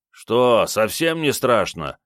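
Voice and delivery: slightly miffed, drawn-out question. Acted. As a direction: let down that the scare failed. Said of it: "обиженно уточнил он".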